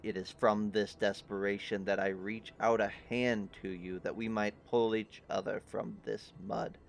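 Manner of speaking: a weary king pleading for alliance; grave king. Acted. GM voices the king.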